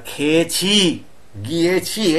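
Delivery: "খেয়েছি, গিয়েছি" drawn out slowly, ending on a long "chhi"; slow teacher's sounding-out of "খেয়েছি, গিয়েছি"; pronunciation demo. Shown as a demonstration. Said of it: "এই যে উচ্চারণটা".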